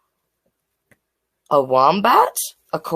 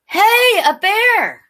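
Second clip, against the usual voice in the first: slow, much higher, louder Aussie "Hey, a bear!"; Captain Cook's cry; 11 semitones higher, 4 dB louder, slower than usual. Acted. Captain Cook spots a koala, slow high Aussie call. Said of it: "Captain Cook said".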